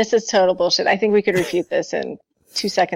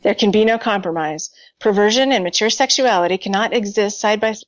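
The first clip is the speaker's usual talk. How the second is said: dramatic reading. Acted. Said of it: "Can I read his climax".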